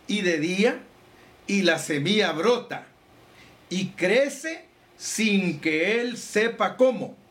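slow, measured reading of the Bible passage; solemn scripture reading. Acted. Preacher reading Mark four to the congregation, slow and solemn. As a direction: let each phrase land, pausing between.

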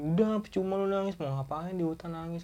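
a hint of harsh tough love; scolding. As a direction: tell him off for crying in the woods. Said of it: "Kan gua bilang gitu".

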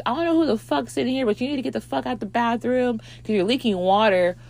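high, fast mock tirade; pissed off. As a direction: imitate an angry friend ordering someone out. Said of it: "She gets pissed off".

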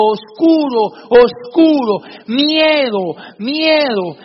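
put-on hollow echo repeating the boy; distant echo. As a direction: let each word ring back like a cave echo. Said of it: "se escuchaba allá en el fondo".

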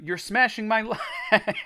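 high, slow, drawn-out wail; pained cry. A narrator's reading. Boy being hit with a stick, wailing. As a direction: wail it, stretching the end. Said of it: "I cried".

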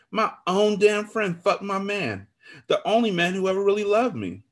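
high-pitched anguished complaint; wounded lament. A narrator's reading. Friend laments betrayal over her man, anguished. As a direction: draw out the hurt in a high voice.

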